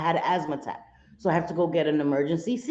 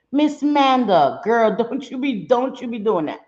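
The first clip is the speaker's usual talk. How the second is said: high, loud teasing scold; mock scolding; 5 semitones higher, 5 dB louder than usual. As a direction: wag a finger at her, half joking. Playfully scolding a chat friend.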